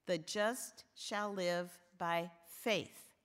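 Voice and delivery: slow and measured, weight landing on faith; pause, then lean on the final word faith; stress on faith. Shown as a demonstration. Preacher quoting Paul to the women, stress on faith. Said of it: "with the emphasis on faith".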